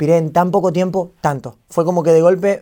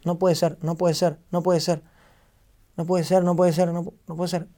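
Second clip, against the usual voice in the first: softer, repeated under the breath in mild shock; retold trembling disbelief; 6 dB quieter than usual. Streamer reliving a shock message, repeating in stunned disbelief. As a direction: keep repeating it softly, as if stunned. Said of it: "y me temblaba la voz".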